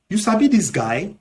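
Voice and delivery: Nigerian Pidgin. Shown as a demonstration. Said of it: "in Nigerian Pidgin English".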